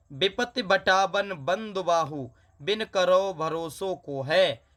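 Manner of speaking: slow, drawn-out verse reading; poem recitation. Acted. Teacher reading the couplet to students, slow recitation. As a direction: lift the couplet slowly like poetry.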